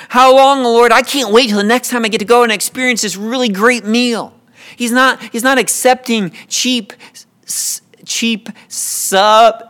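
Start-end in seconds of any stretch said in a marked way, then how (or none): 0.1-4.3 raised mock cry running into fast chatter; mock plea. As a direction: parody a prayer about something trivial. Parody of a trivial prayer.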